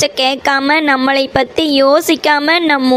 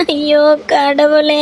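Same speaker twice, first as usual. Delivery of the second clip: wailing to god; slower than usual. Acted. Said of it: "அழுகாத சின்னத்தாயி".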